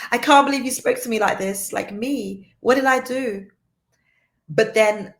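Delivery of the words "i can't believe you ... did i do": higher and louder, hurt and affronted; indignant disbelief. Retold or imitated. Woman replays a partner's harsh words, indignant and louder. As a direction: protest like you were wronged. Quoting her own hurt reaction.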